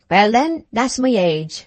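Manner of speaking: put-on firm old man, leaning hard on "my"; a touch of stubborn finality; emphatic. A narrator's reading. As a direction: settle the matter with weight on "my". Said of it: "said the master emphatically".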